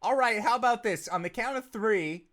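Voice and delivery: Kane talking. Acted. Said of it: "That's Kane talking".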